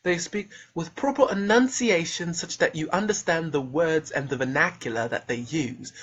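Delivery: proper, enunciated English accent; mock English accent. Shown as a demonstration. Showing how English speakers speak, properly enunciated English accent. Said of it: "this is how English speakers speak".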